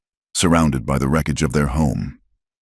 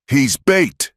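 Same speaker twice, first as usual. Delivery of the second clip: hissed; 11 semitones higher than usual. A narrator's reading. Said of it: "Cal hissed".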